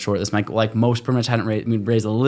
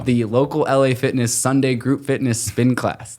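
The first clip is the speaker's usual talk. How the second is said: indignant ego. Retold or imitated. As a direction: re-enact a wounded ego, spelling out each word. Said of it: "my ego got the better of me".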